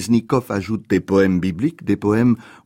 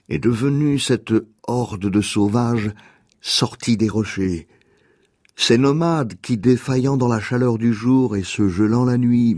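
poem reading. Acted. Reads a poem aloud.

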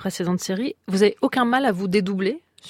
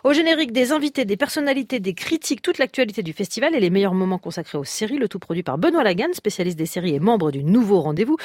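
radio promo read; 3 semitones higher than usual. Acted. Host announces the festival podcast to listeners, promo read. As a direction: sell the new podcast like a station announcer.

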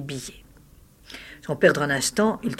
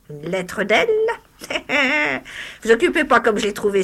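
put-on old hag voice; 4 semitones higher than usual. The disfigured hag mocks the lawyer, high crone voice. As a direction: taunt him like a cackling witch. Hag haggles over money.

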